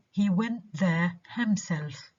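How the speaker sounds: emphatic "himself", stressed on its second syllable. Shown as a demonstration. Teacher showing an emphatic pronoun, "himself" stressed on "self". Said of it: "stressed when it is an emphatic".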